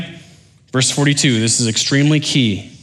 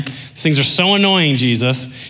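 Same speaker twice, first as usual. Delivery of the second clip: sarcastic. Acted. Pharisee fed up with Jesus' stories, sarcastic. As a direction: act out a fed-up listener. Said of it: "You can hear the sarcasm".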